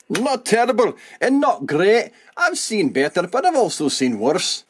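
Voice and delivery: put-on deliberately clumsy Scottish accent for a laugh; self-mocking bad Scottish accent. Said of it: "That was the worst Scottish accent ever".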